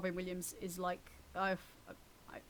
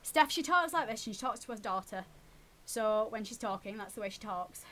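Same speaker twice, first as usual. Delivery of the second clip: Northern accent; 4 dB louder than usual. Shown as a demonstration. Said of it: "your Northern accent".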